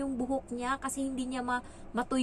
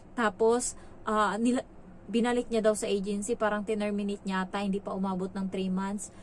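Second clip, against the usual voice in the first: normal talking voice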